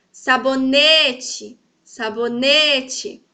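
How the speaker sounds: Sabonete, very slow with a long NE; slow demo of saboNEte, third syllable held out; stress on NE. Shown as a demonstration. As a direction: stretch the NE in Sabonete. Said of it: "Viram que o ne está em evidência?".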